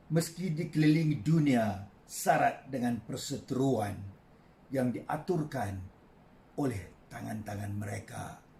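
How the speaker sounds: measured poetry reading with long pauses; poem recitation. Acted. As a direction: recite line by line, letting phrase endings fall. Poet recites own poem. (deklamasi sajak yang tenang)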